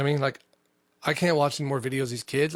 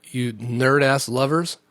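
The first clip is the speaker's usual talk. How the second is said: slow mock official; 4 dB louder than usual. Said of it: "Grand Canyon said".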